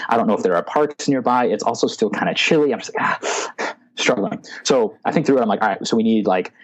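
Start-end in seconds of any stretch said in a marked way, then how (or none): 3.0-3.7 breathy, quiet "ah" of struggle; exasperated sigh. Retold or imitated. Recalling being stuck for a plan, exasperated sigh. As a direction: let out a strained exhale. Acts out his struggling moment.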